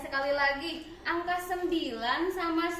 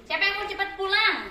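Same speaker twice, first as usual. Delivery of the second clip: calling out to class; 4 semitones higher, 5 dB louder than usual. Real, not acted.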